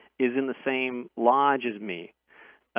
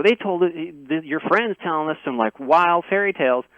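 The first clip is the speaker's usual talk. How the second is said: put-on skeptical good old boy in a southern accent, pitched up; 5 semitones higher, 4 dB louder than usual. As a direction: scoff in a higher southern accent. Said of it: "thick kinda, kinda southern accent".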